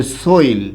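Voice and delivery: সোইল with an oi glide; সোইল, the dialect form of ছেলে; Rangpur pronunciation. Shown as a demonstration. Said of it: "Rangpur অঞ্চলে এটাকে বলে".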